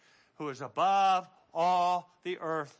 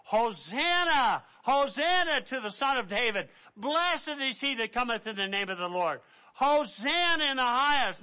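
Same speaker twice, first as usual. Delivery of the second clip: crowd crying hosanna; 4 semitones higher than usual. Retold or imitated. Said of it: "the crowd went before him crying".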